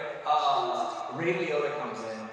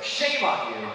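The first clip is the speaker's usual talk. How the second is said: louder playful reproach; mock scolding; 5 dB louder, much slower than usual. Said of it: "So I was like".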